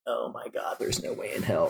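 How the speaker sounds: breathless whispered dread under the breath; scared whisper. Retold or imitated. Climber whispering his fear at the wall's base, hushed and scared. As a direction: whisper it like you're staring up at a huge wall.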